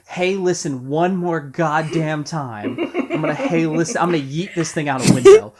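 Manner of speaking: loud, laughing, frustrated, exasperated rant.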